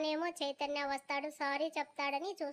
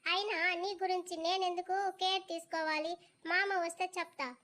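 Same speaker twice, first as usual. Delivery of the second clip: put-on high, raised kid voices arguing; two kids squabbling over who is the boss; bickering children; 4 semitones higher than usual. A boy and a younger girl argue about who must obey, high and sulky.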